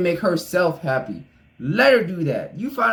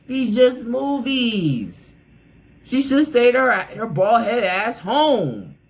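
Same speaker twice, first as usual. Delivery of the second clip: worked-up, raised, higher-pitched outburst; getting too loud; 4 semitones higher, slower than usual. Real, not acted. YouTuber scolding a star's wife for coming along, too loud. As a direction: stretch the words out as you get heated. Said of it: "I'm getting too, too loud".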